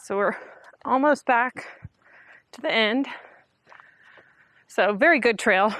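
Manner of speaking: out of breath from the hike; breathing heavy after a climb. Real, not acted. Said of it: "Sorry, I'm breathing heavy".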